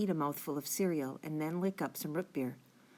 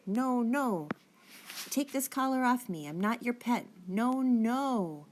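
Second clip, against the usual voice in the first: panicked yelling; 6 semitones higher, slower than usual. A narrator's reading. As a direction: shout it out in terror, pleading. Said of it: "and I started yelling".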